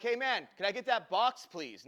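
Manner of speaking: loud, firm demand with an edge; irritated, bit of bass. Retold or imitated. Fed-up customer asking the waiter for a box, irritated. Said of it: "there's a little bass in my voice".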